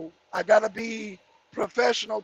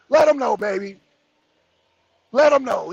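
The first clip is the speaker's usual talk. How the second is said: hyped call; 7 dB louder than usual. Real, not acted. Hyping up a chat comment.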